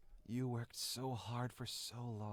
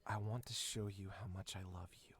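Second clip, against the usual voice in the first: eager Jack; 2 semitones lower, much faster than usual. Acted. Jack confessing his love to the heroine, fast and hushed. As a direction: rush it out, hushed.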